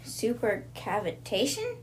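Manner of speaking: Supercavitation? slow, rising, drawn out in disbelief; "Supercavitation?" said slowly with a rising, baffled tune; puzzled question. Retold or imitated. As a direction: ask "Supercavitation?" slowly with a long rise. Anna questions the strange word.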